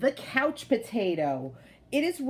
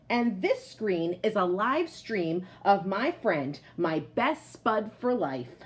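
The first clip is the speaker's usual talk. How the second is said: lively picture-book voice for the potato; reading to children. A narrator's reading. Teacher reading a picture book aloud to her class, lively storytelling voice. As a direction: tell it like a proud, cozy couch potato.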